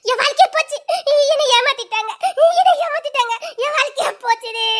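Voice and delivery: high-pitched tearful lament; wailing betrayal. Acted. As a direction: wail over a ruined life. Laments being cheated.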